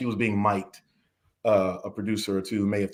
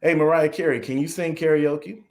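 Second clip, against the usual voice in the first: playful sarcasm; 5 semitones higher than usual. Acted. Asking a star singer about karaoke, playful sarcasm. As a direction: tease with an absurdly obvious question. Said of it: "It was sarcasm like".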